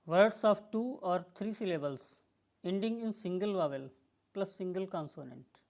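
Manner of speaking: each word spaced out slowly for dictation. Shown as a demonstration. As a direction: read the rule out slowly so students can write it. Teacher dictating second spelling rule. (नियम धीरे-धीरे लिखवाते हुए)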